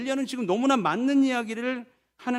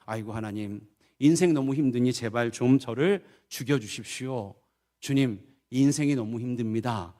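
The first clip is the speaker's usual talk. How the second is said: lower-pitched, understated cry of despair; despairing cry to God; 9 semitones lower than usual. Acted. Elijah and Moses begging God for death, mildly despairing low plea. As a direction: plead wearily, without raising the voice. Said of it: "라고 외치는 모습을".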